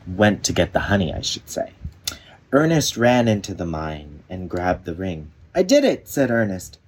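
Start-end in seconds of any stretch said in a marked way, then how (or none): 1.1-1.7 whispered self-correction; quiet aside. Real, not acted. 5.5-6.1 high, loud happy cheer; triumphant. Acted. Ernest gets the ring.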